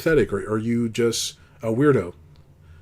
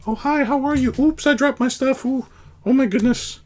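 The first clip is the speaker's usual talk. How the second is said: high, slow, airy mock girly voice; ditzy girl impression; 13 semitones higher, 4 dB louder than usual. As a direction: ham up a clumsy girl's sweet chatter.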